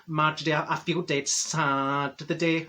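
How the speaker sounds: mildly mopey retold voice, dragged out; down in the dumps. Senga confiding in her friend Marjorie, mock glum. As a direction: imitate a glum friend, slowly. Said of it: "she was a bit down in the dumps".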